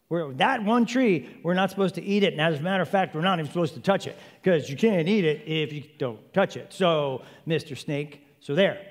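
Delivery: lightly voiced Eve talking back with emphasis; defiant Eve. Eve insisting to the snake, mock-defiant. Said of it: "put a little mustard on the ball and be like".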